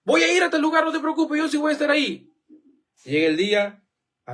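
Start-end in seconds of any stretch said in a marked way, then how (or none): 0.0-2.3 mock casual promise. Mimics someone making a casual promise.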